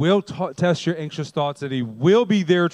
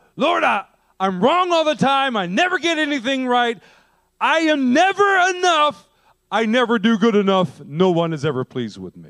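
high, crying-out voice; 8 semitones higher than usual. Speaker demonstrating how someone cries out to the Lord, crying out. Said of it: "the emphasis is on the cry like".

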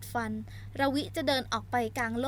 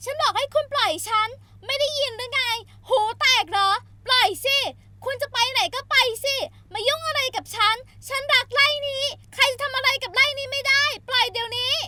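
very high, very loud, shrill, furious yelling; 12 semitones higher, 9 dB louder than usual. Narrating a story as Sola lashes out at someone: shouting loudly. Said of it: "โซล่าตวาดลั่น".

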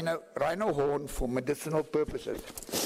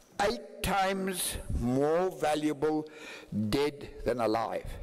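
very slow, deliberate, drawn out word by word. Giving a talk, the speaker announces they will say this part slowly; said slowly. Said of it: "I want to say this slowly".

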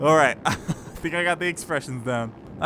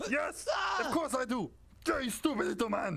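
very quiet, slurred, drunken put-on Austrian accent; 9 semitones higher, 10 dB quieter than usual. Voicing a character's reply, put-on accent. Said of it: "I don't know why I was doing quite that accent".

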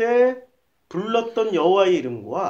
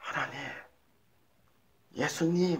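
gentle, very quiet, soft hushed voice; 6 semitones lower, 11 dB quieter than usual. In a sermon, demonstrating calling on God quietly, soft and quiet. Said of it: "조용하게 조용하게 이렇게".

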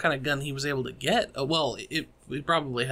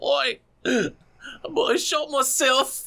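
clumsy put-on British accent, very high and slow; 12 semitones higher, 4 dB louder than usual. Imagining what was said after a man shot himself: bad british accent. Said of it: "I can't do a British accent".

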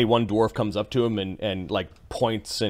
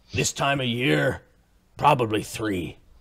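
quick, slangy dwarven-goblin pidgin; 2 semitones higher than usual. A game master voicing a character answering the players: quick dwarven-goblin pidgin. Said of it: "speaks in kind of like this dwarven goblin pigeon".

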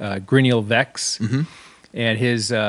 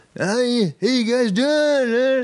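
mock drunken talk, pitched higher; 13 semitones higher than usual. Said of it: "he was so totally ripped".

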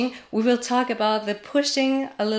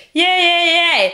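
very loud, piercing, sharp cutting edge; 7 semitones higher, 8 dB louder than usual. Showing learners what sound to go for when practicing, with a sharp, bitchy sound. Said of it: "You go for the sharp, bitchy sound".

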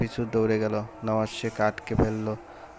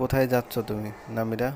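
ordinary delivery, nothing marked

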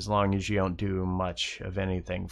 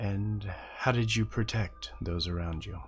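inward speaking voice, quieter; 5 dB quieter than usual. Voicing a voice heard in a character's head: voice in the head. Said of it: "The voice pauses for a few moments and says".

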